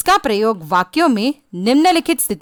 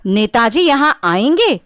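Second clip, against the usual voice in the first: exclamation. Shown as a demonstration. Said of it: "विस्मयादि सूचक चिन्ह का प्रयोग किया गया है".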